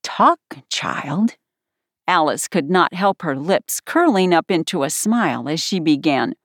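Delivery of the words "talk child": dreamy, higher-pitched command. A narrator's reading. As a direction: drift into it dreamily. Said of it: "looked dreamily at Alice and said".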